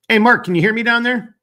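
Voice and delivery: loud, high call to someone far off; calling down a hallway. Real, not acted. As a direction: shout down to someone out of sight. Host calls to guest down there.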